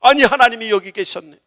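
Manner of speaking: loud, high amazed exclamation, falling end; acted wonder, landing as certainty; holy astonishment. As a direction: exclaim the discovery with force. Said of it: "거룩하게 놀래보시기 바랍니다".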